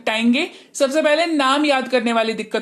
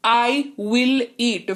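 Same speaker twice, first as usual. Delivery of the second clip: very slow drill; much slower than usual. Shown as a demonstration. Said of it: "future में will का इस्तेमाल होता है".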